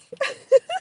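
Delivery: sudden high squeal of a laugh; high burst of laughter. Real, not acted. Laughing at her uncool self.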